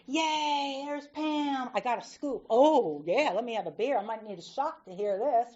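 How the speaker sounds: high, loud cheerful barroom greeting; cheering bar friends. Retold or imitated. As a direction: play the regulars delighted to see her. Bar friends greet her loudly.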